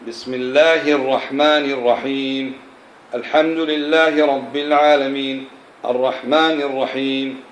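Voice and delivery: slow, careful reciting with each vowel given; slow model recitation. Shown as a demonstration. Teacher reciting slowly for students to repeat. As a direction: recite the verses deliberately for students to copy. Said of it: "فاقرأ هكذا".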